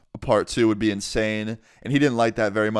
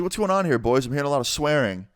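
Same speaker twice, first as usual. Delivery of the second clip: lightly voiced mom, pitched up; imitated mom; 4 semitones higher, faster than usual. Mom checking on swearing boys, lightly imitated higher voice. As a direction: imitate a questioning mother, high at the start. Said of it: "And she's like".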